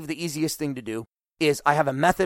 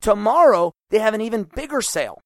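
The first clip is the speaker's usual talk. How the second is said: imitated excitement; 3 semitones higher, 3 dB louder than usual. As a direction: gush like a bargain hunter at a sale. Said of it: "No, you go".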